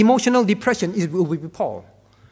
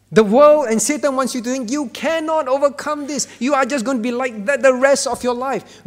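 mocking taunt; 5 semitones higher than usual. Voicing Satan's taunt.

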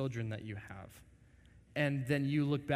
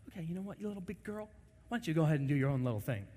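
sarcastic resignation; 3 semitones higher, much faster than usual. Retold or imitated. Sarcastic parent giving up.

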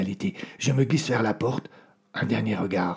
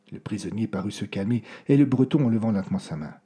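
ordinary talk

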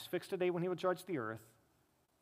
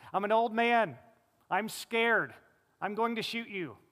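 louder, higher and urgent, as if facing an intruder; emphatic retelling; 4 semitones higher, 6 dB louder than usual. Retold or imitated. Pastor retelling Nathan's warning to attackers, louder and urgent. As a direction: proclaim it firmly like an old man standing his ground. Nathan's retold self-talk when defending.

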